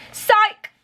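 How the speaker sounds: high, loud teasing "Psych!"; spring the joke on them; gotcha shout. Pretend. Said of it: "And I'll be like".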